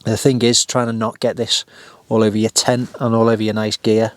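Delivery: talking while crunching chips. Real, not acted. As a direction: mouth full, crunching between words. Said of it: "You can probably hear me crunching it as well".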